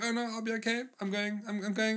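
put-on girl about to cry. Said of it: "and then she starts crying".

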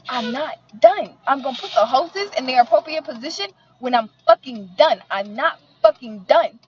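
fired-up retold telling-off; heated rant. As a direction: tell him off hard. Ranting at car wash man.

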